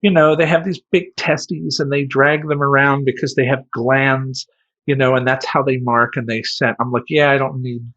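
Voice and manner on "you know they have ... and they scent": high, loud matter-of-fact clerk; chirpy lecture on rats; clerk explaining. Retold or imitated. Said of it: "She's like".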